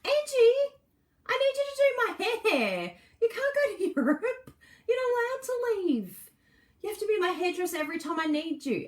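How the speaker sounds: high, pleading mock whine through laughter. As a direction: beg the hairdresser not to leave, half-joking. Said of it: "I'm like".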